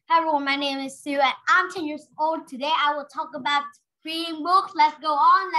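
fast, no breaths between sentences; rushed without pauses. Shown as a demonstration. Teacher demoing a talk with no pauses. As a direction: race through it without stopping. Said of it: "If you don't pause".

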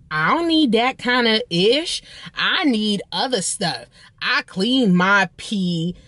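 put-on slow, drawn-out Los Angeles hood accent; a hint of stretched-out LA hood talk; imitated hood Los Angeles accent. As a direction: lightly mimic a hood LA woman, dragging the words. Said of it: "Los Angeles accent".

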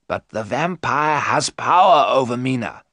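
firm, loud professor's warning; explaining professor. Acted. Professor answers angry Jonathan, firmly explaining. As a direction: explain the danger with weight.

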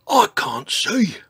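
high, loud, slow complaint; panting. A narrator's reading. Dinosaur unable to see after climbing, loud high panting. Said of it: "panted George".

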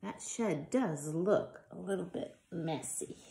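lively storybook reading voice; reading to children. Acted. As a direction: read it out to little ones with life. Reads picture book to children.

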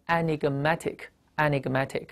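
enigmatic said slowly, stress moved to -MAT-; slow model reading, hit MAT in enigmatic; shifted stress. Shown as a demonstration. Teacher models the adjective, enigmatic slowly with stress on MAT. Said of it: "这个重音就挪了".

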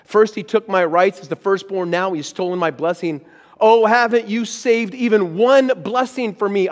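rising hurt and outrage, begging his father; anguished protest. A narrator's reading. Pastor voicing Esau crying out to his father, loud and anguished.

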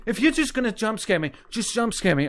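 nervous pleading. Real, not acted. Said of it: "I'm getting really scared".

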